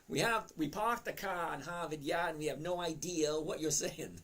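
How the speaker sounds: put-on light Boston accent, park the car with dropped r's; "park the car in Harvard Yard" without r's. To chat, joking about the Boston accent. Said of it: "that's Bostonian for you".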